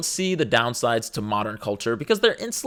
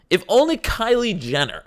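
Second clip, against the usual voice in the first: sarcastic echo; 7 semitones higher than usual. Retold or imitated. Mocking the online complainers, higher sarcastic echo. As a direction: sneer the phrase back.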